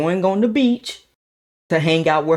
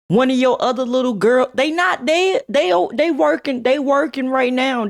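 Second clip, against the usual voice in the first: high, pitched-up mock of his friend; imitating friend; 10 semitones higher than usual. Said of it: "Jamez's like".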